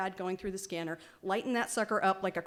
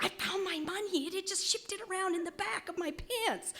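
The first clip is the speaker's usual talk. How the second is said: much higher, relieved dad voice; dad's voice; 11 semitones higher than usual. Retold or imitated. Dad telling his daughter he found the money, high and relieved.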